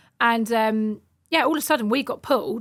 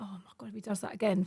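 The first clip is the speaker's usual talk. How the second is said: fast frightened whisper; fast whispered panic after being hit; whispered thought; 9 dB quieter, faster than usual. Retold or imitated. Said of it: "I thought".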